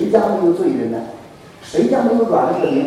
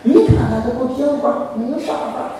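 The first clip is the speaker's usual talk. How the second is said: mock wailing despair; 6 dB quieter than usual. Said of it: "那哭泣宣告的声音说".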